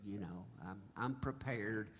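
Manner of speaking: thinking to myself. Retold or imitated. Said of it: "I'm thinking to myself".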